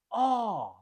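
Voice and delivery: "R" as a long, isolated ah, falling; long vowel sound. Shown as a demonstration. Teacher isolates the vowel of castle, a drawn-out "R". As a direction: hold the vowel "R" alone, as a pure ah. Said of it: "we have a long vowel sound".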